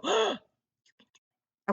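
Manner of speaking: high, bright "Oh, you can do it" as if amazed; encouraging gasp. Retold or imitated. Teacher imitating how readers cheer a reader on, high and amazed. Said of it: "we go".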